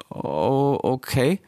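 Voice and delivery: put-on high, halting young voice; timid Rix. (schüchterner Rix, hoch und stockend)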